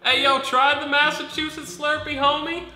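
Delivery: hyped bro voice. Acted. Acted dude giving advice.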